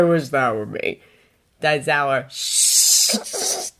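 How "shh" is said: whispered shush. Acted. Hushing a secret.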